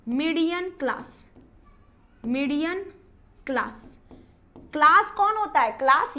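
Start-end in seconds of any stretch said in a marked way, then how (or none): 0.1-1.2 slow dictation. Shown as a demonstration. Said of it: "आप लिख सकते हो". 2.2-3.9 dictating word by word. Shown as a demonstration. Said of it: "आप लिख सकते हो".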